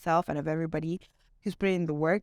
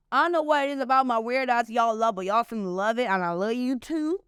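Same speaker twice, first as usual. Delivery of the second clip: put-on Bronx accent; 3 semitones higher than usual. Host thanking her fans in a playful Bronx accent. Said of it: "That's my, like, Bronx accent".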